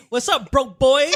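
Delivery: mocking greeting. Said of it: "They said".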